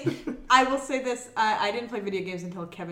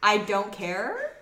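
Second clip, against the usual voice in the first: unbothered; 4 dB louder, much slower than usual. Retold or imitated. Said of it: "it's very funny. He's just like".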